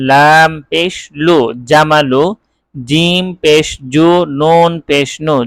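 slow, drawn-out Arabic spelling drill; deliberate teacher's reading drill with held vowels; spelling-out recitation. Shown as a demonstration. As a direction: intone each letter name long, then the syllable. Models letter-by-letter spelling drill.

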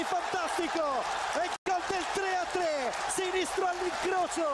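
excited goal call. Real, not acted. Goal commentary.

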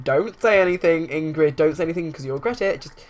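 loud, firm telling-off; stern warning. Acted. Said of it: "given her the side eye".

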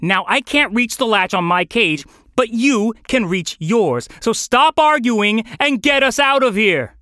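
high, exasperated hungry rant; fed up, urging a dim companion to act; snappish. Acted. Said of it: "Hunger made Felix snappish".

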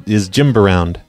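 a light echo of "Jimb" with the b. Retold or imitated. Host quotes the prank caller, "Jimb". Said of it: "he says".

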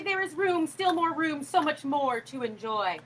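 a hint of the boy urging him on; boy's voice. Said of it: "said the boy".

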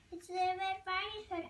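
put-on a wolf faking a girl's voice, thinly; wolf imitating girl. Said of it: "mimicking the girl's voice as best as he could".

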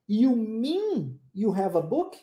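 slow, clear "You mean you have a book?" rising on mean; slow model question; slow model sentence. Shown as a demonstration. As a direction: read it slowly for repeating. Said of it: "Olha a primeira frase".

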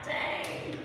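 soft, barely voiced dang; stunned reaction. Churchgoer stung by God's correction, hushed and stunned. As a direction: let it out under the breath.

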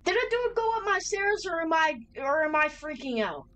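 high, rattled questioning; alarmed disbelief; freaking out. Real, not acted. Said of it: "I think I'm just freaking out".

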